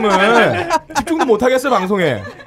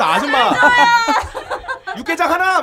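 far-off market call; 10 semitones higher than usual. Retold or imitated. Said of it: "무슨 멀리 시장에서".

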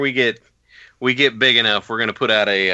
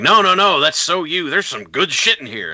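hammed-up Vince; 6 semitones higher than usual. Vince waves off the wrestler's complaint, mock gushing. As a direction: cheerfully brush off the complaint in a hammed-up voice. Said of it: "And Vince is like".

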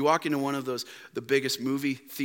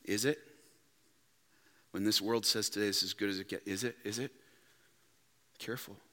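much softer, lower searching question; hushed warning; 10 semitones lower, 12 dB quieter, faster than usual. Real, not acted. Preacher quietly warning the congregation, hushed. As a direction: draw them in almost under breath.

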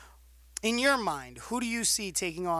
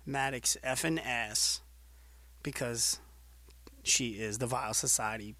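relayed threat; 4 semitones lower than usual. Retold or imitated. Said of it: "Adriana Fury".

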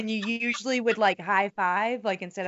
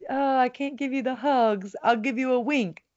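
put-on old grandma; 4 semitones higher than usual. Imitating an Italian grandma's video, old grandma voice. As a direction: do a playful old Italian granny. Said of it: "I just did some old grandma".

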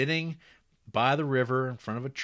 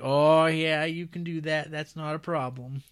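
mock folksy townsfolk; 6 semitones higher, 4 dB louder than usual. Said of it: "And they're like".

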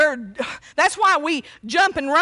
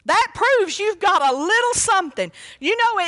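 ordinary talk

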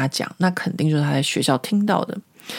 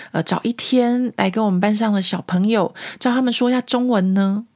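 polite teacher; 3 semitones higher than usual. Retold or imitated. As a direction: lightly play the overly polite teacher. Teacher's polite invitation retold. (略带客气甜美的老师腔)

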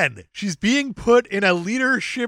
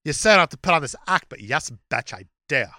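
a hint of a sassy queen; diva queen; 5 semitones lower than usual. Playing Aragorn as a diva queen.

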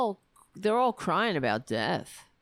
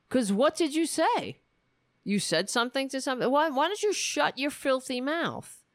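angry rant; 5 semitones higher than usual. Real, not acted. Ranting at racist man.

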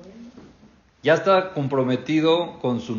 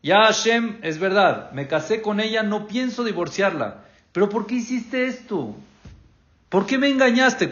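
raised reproach; 5 semitones higher than usual. Retold or imitated. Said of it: "Jacob le dijo".

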